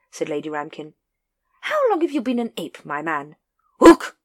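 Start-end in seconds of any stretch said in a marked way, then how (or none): 1.6-3.4 high, hearty upper-class lady; lady addressing the ranks, high and hearty; grand lady voice. A narrator's reading. Lady Ramkin questions the ape. 3.8-4.2 loud, high ape call; orangutan answering the lady with a loud high hoot. A narrator's reading. Librarian ape's call.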